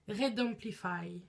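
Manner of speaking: Red Amplify in a French accent, said slowly; brand name read in a plain French accent, unpolished English; jokingly poor English accent on Red Amplify; Frenchified English. Real, not acted. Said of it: "Quel bel accent, toujours anglais".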